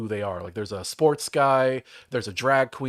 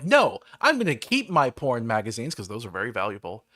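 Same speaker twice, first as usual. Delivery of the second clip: mock heroic challenge; 2 semitones higher, 4 dB louder than usual. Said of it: "I'm like".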